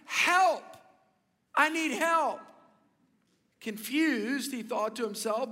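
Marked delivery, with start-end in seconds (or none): 0.1-2.4 high, loud shout thrown back; imitating an echoed yell for help. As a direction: call it back like a mountain echo. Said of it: "somebody shouting back at him".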